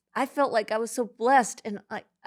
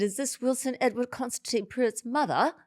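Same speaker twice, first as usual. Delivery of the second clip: lightly imitated British caller, pitched higher; British accent; 5 semitones higher than usual. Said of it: "it was a British accent".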